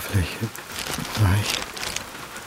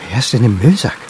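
panicked outburst; 2 semitones higher, 7 dB louder than usual. Acted. Panicked man alone at car boot.

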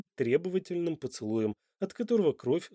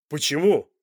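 louder, sharp demand; man aggressively asking why; almost aggressive; 8 dB louder than usual. Acted. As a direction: snap the question at her. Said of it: "почти агрессивно спросил Данте".

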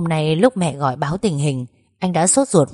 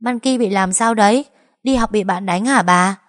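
anxious asking; 5 semitones higher, 4 dB louder than usual. Acted. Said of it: "sốt sắng hỏi".

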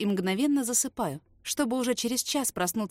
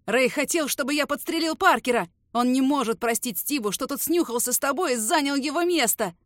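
louder, higher, howling through tears; terrified snitch wailing his confession; 5 semitones higher, 6 dB louder than usual. Acted. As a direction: blurt it all out crying. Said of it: "По новой завыв".

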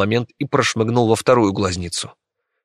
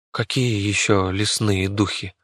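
wary question; 3 dB quieter than usual. Acted. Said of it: "настороженно переспросил Мартин".

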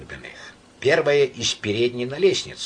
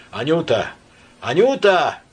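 loud, cheery call, higher on the second; brisk shout; 6 semitones higher, 6 dB louder than usual. A narrator's reading. Myshlaevsky calls the maid, brisk loud shout. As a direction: call out briskly, suddenly healthy. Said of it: "бодро ... вскричал Мышлаевский".

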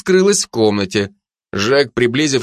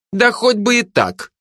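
irritated grumble; 12 semitones higher than usual. A narrator's reading. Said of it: "раздраженно буркнула Жанна".

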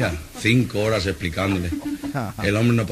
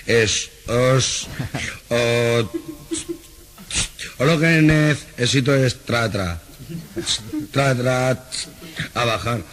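tartamudea lento, atascado en cada sílaba; tartamudeo exagerado; much slower than usual. Acted. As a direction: imita al tartamudo que no arranca. Chiste de tartamudo pidiendo trabajo. (tartamudo que se atasca al pedir trabajo)

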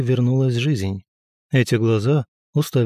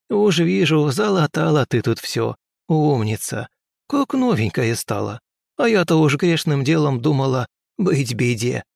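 higher crone voice; praising old woman; 4 semitones higher than usual. Acted. Old healer praises the girl. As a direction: fuss over her like a granny.

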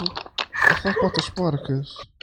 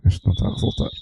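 whispered aside; 11 semitones lower, 3 dB louder, much faster than usual. Real, not acted. Whispered aside, call failing.

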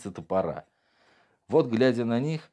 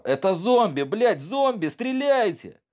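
panicked soldier yelling, higher and louder; loud gung-ho soldier; 12 semitones higher, 3 dB louder, slower than usual. Acted. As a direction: scream the order to open fire. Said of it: "Один из солдат заорал".

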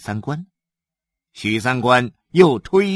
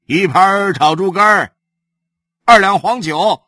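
loud, high call across the room; shouting an order; 8 semitones higher, 9 dB louder than usual. Acted. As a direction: bang the table and call out the order. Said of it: "拍着桌子对跑堂的喊道".

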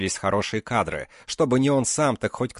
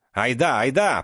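urging shouts; 4 semitones higher than usual. Acted. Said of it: "покрикивал Айрат".

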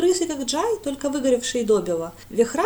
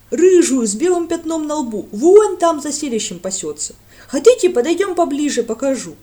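eager village lad; 5 semitones higher, 11 dB louder than usual. A narrator's reading. Lad describing the cow.

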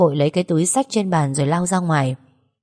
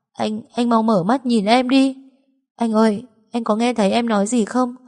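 higher, tearful pleading; crying; 5 semitones higher than usual. Acted. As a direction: she begs her dead boyfriend to wake. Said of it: "Tôi khóc đến nấc lên". (vừa khóc vừa gọi)

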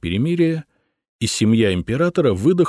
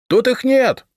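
much higher, louder shout; 5 dB louder than usual. A narrator's reading. Decurion shouting to the patrikios, loud. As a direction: shout the lie at the stairs. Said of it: "крикнул Третьяк".

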